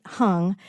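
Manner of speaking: "hung" said slowly, spelled H A N G; pronounced hung. Shown as a demonstration. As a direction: say "hung" with an "uh" vowel, not as in "hang". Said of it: "spelled H A N G, but pronounced hung".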